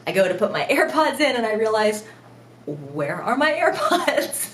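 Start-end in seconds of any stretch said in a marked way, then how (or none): 2.7-4.5 slow, laughing dismay; laughing realization. Retold or imitated. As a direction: drag it out, amused disbelief.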